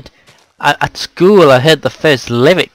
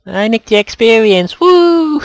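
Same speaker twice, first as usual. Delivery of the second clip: excited; 9 semitones higher, 6 dB louder, slower than usual. Real, not acted. Cheering loot grab.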